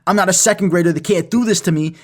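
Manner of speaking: retold panic, building in volume; freaking out. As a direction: spiral into mock panic, one worry tumbling after another. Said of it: "I start freaking out".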